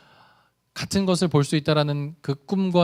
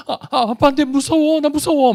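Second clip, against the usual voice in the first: put-on much higher, whimpering little boy voice; tearful scared child; 10 semitones higher, 5 dB louder than usual. Son afraid of going to Spain, higher whimpering child voice. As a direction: play a frightened son on the verge of tears. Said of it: "울먹울먹하면".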